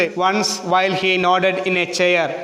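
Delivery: slow measured line with beats on "while", "nodded" and "chair"; stressed poem recitation. Shown as a demonstration. Teacher models the second stanza's first line, slow stressed beats on "while" and "chair". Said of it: "stressed ആണ്".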